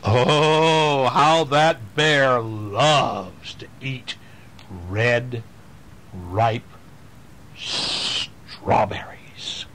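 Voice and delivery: very slow, fading to a whisper; slow relishing tease. Acted. Reading to kids, savouring the bear's appetite down to a whisper. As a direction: savour each word, then whisper.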